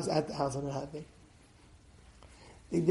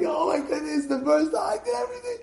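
dismayed cry; 9 semitones higher than usual. Retold or imitated. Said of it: "And the sister's like".

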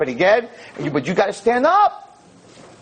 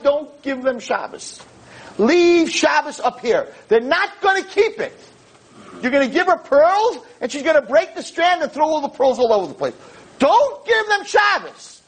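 angels pleading; 6 semitones higher than usual. Retold or imitated. Angels begging Hashem to keep Shabbos, lightly voiced plea. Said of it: "the Malachim were like".

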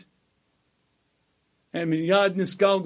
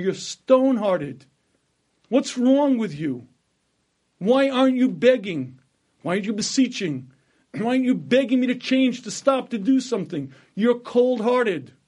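pleading, raised voice of God scolding a prophet; God rebuking Yirmiyah, urgent and raised; stern rebuke; 3 semitones higher, 3 dB louder than usual. Acted. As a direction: rebuke him, demanding he plead.

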